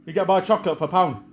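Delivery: high, loud, rattling off deals; hammed-up crone reeling off bargains; imitating pushy old crone. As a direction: pile on offers like a manic saleswoman. Keeps voicing the pushy crone.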